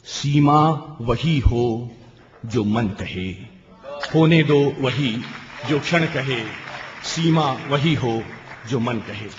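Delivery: lingering close, fading at the end; poem recitation. Acted. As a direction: let the last line fall away. (धीमे स्वर में काव्य समापन)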